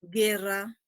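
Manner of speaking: "Guerra" said carefully as ge-rra; silent U in guerra. Shown as a demonstration. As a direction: demonstrate "Guerra" with no U sound. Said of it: "No suena, ¿verdad?". ("Guerra" con la U muda)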